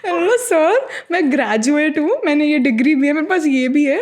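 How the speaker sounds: wounded plea of a graduate; indignant high protest. Retold or imitated. To the Qatar airport official, indignant high-pitched protest.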